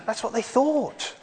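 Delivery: put-on animated storytelling for children; bright, bouncy children's presenter; kids show host. Leads children's talk with animation.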